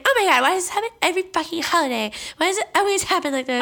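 high, quick mock wail; exasperated aunt. Aunt lamenting the yearly family blowup, exasperated. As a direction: imitate an aunt fed up with it all. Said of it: "my aunt's like".

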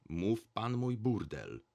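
slow, firm correction; deliberate, understated insistence; cool self-assured interruption. A narrator's reading. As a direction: cut in coolly, sure of being right. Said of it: "chłodno, tonem człowieka pełnego swej racji".

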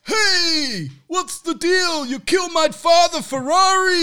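angry shout. Acted. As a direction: yell at the man who killed your father. Son confronts his father's killer.

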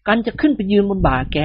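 buddy explaining the ghost trick, lightly voiced; voiced scheming friend. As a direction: plot the next move to your pal. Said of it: "กระซิบกระซาบกับกิมหงวน".

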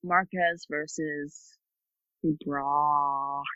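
very slow, careful pronunciation; over enunciating. Shown as a demonstration. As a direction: spell out each syllable of Ibrahimov slowly. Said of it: "I said it very slowly".

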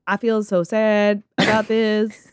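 slow, drawn-out fake sorrow; hammed-up, dragging apology voice; a rapper's mock sadness. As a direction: put on insincere sadness for show. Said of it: "basically doing the rapper".

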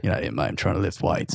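put-on Australian accent. Imitating Hemsworth, Australian.

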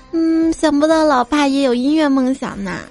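lightly voiced little daughter; 稍微装成女儿的口吻; 女儿的声音. 女儿接话，换声扮演. (轻轻模仿女儿说话)

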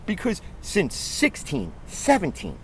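building fan frustration; heated rant. Real, not acted. Fan outburst about the team.

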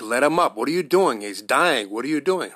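reliving yelling at the screen; retold yelling at the phone. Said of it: "I was screaming at my phone".

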